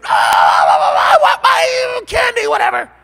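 put-on loud, high wailing kid throwing a fit; child's tantrum. Mom ignoring her screaming child in store, wailing tantrum. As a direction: scream like a toddler denied candy.

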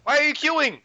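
squeaky, high alarmed question; high-pitched disbelief. Real, not acted. Alarmed at friend queuing.

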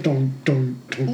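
low mock knocking noise; knocking sound. Player raps on Pumpko's pumpkin helmet, imitated knocking. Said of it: "knock on his pumpkin helmet".

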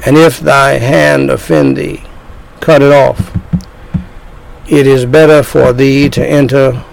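solemn Bible reading from the pulpit; scripture reading. Acted. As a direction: read it like a preacher building to a warning. Reads scripture passage in sermon.

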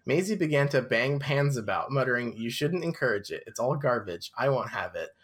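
measured storybook narration; story narration. A narrator's reading. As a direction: read it aloud like a novel. Reads the book aloud.

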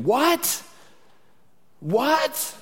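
high, far-off puzzled what; straining to hear. Retold or imitated. People answering God over life's noise, straining to hear. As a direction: ask again, unable to hear over noise. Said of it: "we're saying".

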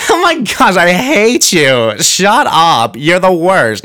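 playful mock hate. Friend teasing a funny guy, playful mock disgust. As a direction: squeal it like a friend who adores you. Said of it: "when you say you hate someone".

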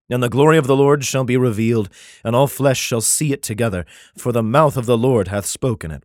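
solemn, measured Bible reading; declaiming scripture, slowing at the end. Acted. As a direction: read it like a King James passage. Reads Isaiah aloud.

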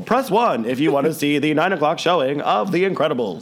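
recorded phone-line announcer; lightly voiced automated movie line. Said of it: "That's my movie phone voice".

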